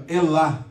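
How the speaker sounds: Elá with the stress on the final lá; stress on last syllable. Shown as a demonstration. Professor ensina a tônica de Elá, na última sílaba. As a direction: say Elá, hitting lá. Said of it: "Sílaba tônica, a última".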